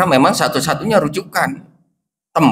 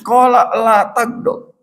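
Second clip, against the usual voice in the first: slow and higher, stressing qala; raised slow recitation; slow emphatic quote; 7 semitones higher, slower than usual. Retold or imitated. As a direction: proclaim the answer slowly. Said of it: "Jawabannya tetap sama dari Nabi".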